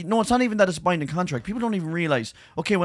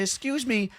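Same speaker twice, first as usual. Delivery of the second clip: mock posh; 9 semitones higher, 5 dB quieter than usual. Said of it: "she goes posher".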